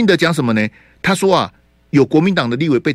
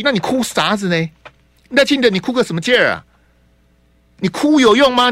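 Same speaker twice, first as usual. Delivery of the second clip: heated rant; 5 semitones higher than usual. Real, not acted. Host rants at Lai Ching-te.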